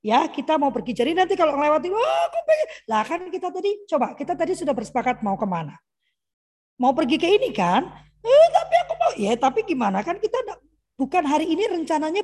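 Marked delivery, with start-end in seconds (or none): 1.9-2.7 put-on high little-kid voice, wanting a toy; whiny child. Mother playing her child begging for a treat, high whiny child voice. 8.2-9.1 put-on high, louder childish protest with a laugh; insisting child. Mother voicing child insisting on the shop, high laughing child protest.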